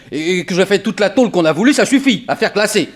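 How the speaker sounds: chuckling through the words; laughing it off. Acted. Ex-convict excusing himself to the detective, laughing. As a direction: laugh away his past. Laughs off his prison time.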